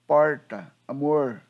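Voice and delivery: "Porta, amor" with a rural São Paulo caipira R, loud. Shown as a demonstration. History teller showing the audience what Tupi left behind, caipira R. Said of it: "esse R, caipira".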